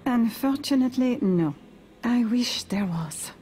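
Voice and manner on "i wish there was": whispering. Acted. Wistful whispered aside.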